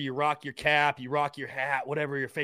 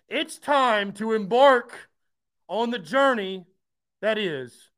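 dramatic hype; 4 semitones higher, 4 dB louder, slower than usual. Real, not acted. Dramatic sign-off for season.

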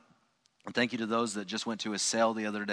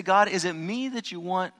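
earnest prayer; 6 semitones higher than usual. Pretend. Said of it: "And then we say".

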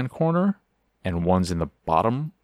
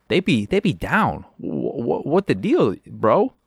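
mock bro voice; 5 semitones higher, slower than usual. Quest giver voiced in game retelling.

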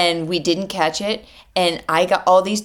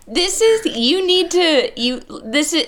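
pitched way up in disbelief; sputtering, can't find the words; exasperated; 11 semitones higher than usual. Real, not acted. Ranting about a bold-faced lie, exasperated and high.

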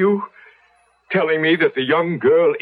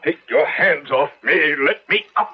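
struggling; 3 semitones higher than usual. Acted. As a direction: fight free of his grip. Doctor fights off servant.

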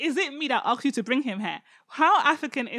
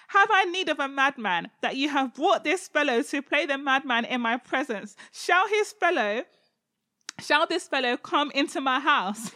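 lightly voiced indignant king; 3 semitones higher than usual. Achish speaking indignantly.

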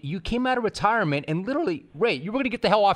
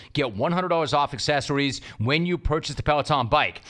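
upbeat sponsor read, brisk and bright; smooth host-read commercial. Acted. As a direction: sell it like a podcast ad.

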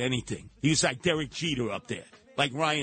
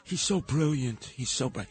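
mock Fox listeners. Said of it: "all the Fox News listeners".

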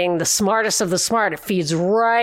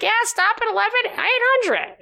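mock sarcastic quip; 12 semitones higher than usual. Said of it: "So I'm just like".

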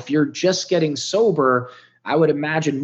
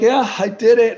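higher and a little louder, tears close; choked-up answer; 8 semitones higher, 4 dB louder than usual. Real, not acted. Answering the friend who says he made it, choked up. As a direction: voice catching as it rises. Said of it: "fucking tears welled up in my eyes".

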